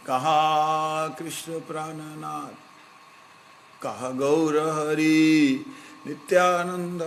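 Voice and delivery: slow, yearning cry to the Lord, drawn out; pleading with pathos. Retold or imitated. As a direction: call out in longing as if searching the sky. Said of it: "बिल्कुल आवाज में कारुण्य". (करुण पुकार, धीमी और खिंची हुई)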